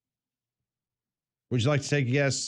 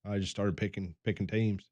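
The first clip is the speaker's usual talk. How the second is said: softer mock redneck accent; a hint of a Southern redneck voice; 3 semitones lower, 7 dB quieter than usual. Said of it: "the redneck accent that we were doing".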